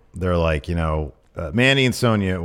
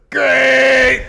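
flat, sudden high blurt of great; mock deadpan great; 8 dB louder than usual. Retelling Otis's reply to Mandy, a high loud blurt. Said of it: "And he just says".

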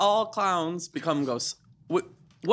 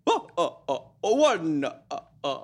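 vampire voice; slower than usual. Pretend. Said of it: "Do you have a vampire voice?".

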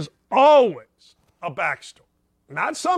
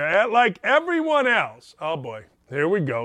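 normal talking voice

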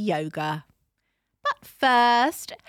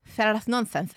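attempted Spanish accent; hammed-up Spanish accent. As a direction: put on a Spanish accent for the read.

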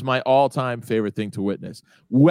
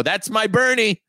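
mom impression; 8 semitones higher, slower than usual. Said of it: "She'd go".

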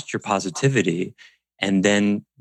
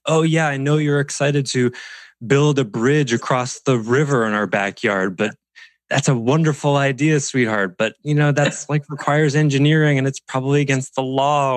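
put-on humoring a child; 5 semitones higher than usual. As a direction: play along with a kid's big idea.

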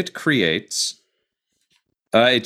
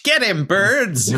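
higher, slow shout; shouted command; 9 semitones higher, much slower than usual. Acted. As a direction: call the birds to attack. Character commanding birds.

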